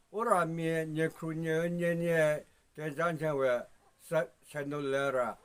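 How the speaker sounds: quick rhythmic verse recited from memory; steady fast sing-song recitation. Acted. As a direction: keep the rapid rhythmic chant going.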